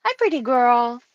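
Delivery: pet talk. Real, not acted. Streamer greets the pet mid-chat, cooing.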